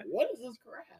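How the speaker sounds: high, airy disbelieving whisper; whispered disbelief. Retold or imitated. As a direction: breathe it out in mock horror. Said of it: "'cause I was just like".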